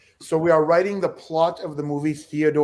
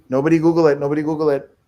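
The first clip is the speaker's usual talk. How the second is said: loud warning; 5 dB louder, faster than usual. Real, not acted. Repeating the warning to players.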